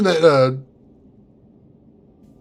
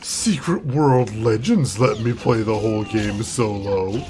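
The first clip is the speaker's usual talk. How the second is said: whiny, sulky complaint, slow; pouty voice; 10 semitones lower, slower than usual. Pretend. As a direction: pout like a sulking kid. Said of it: "I say in a pouty voice".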